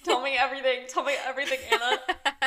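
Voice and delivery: loud, excited pleading for gossip; urgent and loud, insisting; eager demand. Real, not acted. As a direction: press a friend eagerly for the whole story. Eagerly demanding the friend's story.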